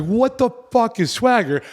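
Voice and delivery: high, slow, confused; baffled younger self. Retold or imitated. Clueless teen to his friends, high slow confusion. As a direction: play the clueless kid, slowed and high.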